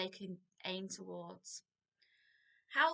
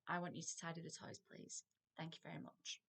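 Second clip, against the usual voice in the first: calm firm command; 4 semitones lower, 10 dB quieter than usual. Shown as a demonstration. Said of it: "tell them you want them to do it".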